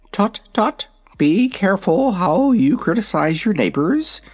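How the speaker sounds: put-on high, rasping young dragon; rasping dragonette voice. A narrator's reading. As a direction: scold in a raspy little dragon voice. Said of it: "spoke a rasping voice".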